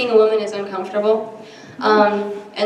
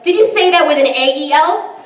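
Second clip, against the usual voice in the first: paranoid checking; 6 semitones higher, 3 dB louder than usual. Retold or imitated. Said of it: "and I'm like".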